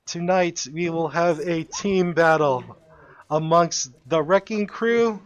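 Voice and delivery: booming arena announcer; fighting game announcer. Acted. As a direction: announce it to the crowd. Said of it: "he goes and tells everyone".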